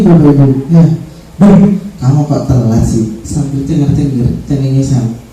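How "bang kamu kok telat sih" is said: teasing friend. Shown as a demonstration. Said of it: "Si guru sambil mesem-mesem".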